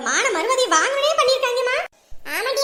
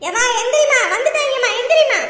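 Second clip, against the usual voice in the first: loud rousing call; 4 dB louder than usual. Acted. Woman rouses sleeping mother.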